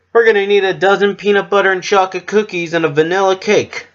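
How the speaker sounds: high, loud, fast excited order; cheering. Acted. Missus Cake announcing a big order, cheering fast. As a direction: rattle it off bursting with glee. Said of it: "she cheered".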